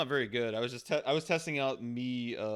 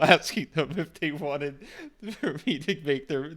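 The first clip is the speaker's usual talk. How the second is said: Gonzorig voice; 5 semitones higher, 4 dB louder than usual. Retold or imitated. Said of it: "That was the voice that I gave to him".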